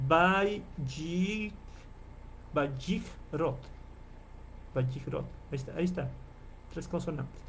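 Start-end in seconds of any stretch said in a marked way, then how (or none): 0.1-5.2 Bayikrot sounded out as ba-ik-ROT; deliberate Hebrew reading of Bayikrot; reading Hebrew aloud. Shown as a demonstration. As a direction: read Bayikrot out slowly from the text. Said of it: "aquí dice".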